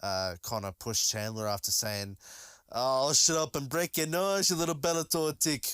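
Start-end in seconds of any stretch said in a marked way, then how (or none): 2.7-5.7 a failed attempt at Conor's Irish accent, higher and louder; mock Irish taunt, badly done; hammed-up Irish brogue that barely lands. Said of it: "I can't do an Irish accent".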